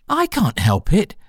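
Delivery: high, meek little apology. Acted. Alice apologising to the Dormouse, very meekly. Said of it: "said Alice very meekly".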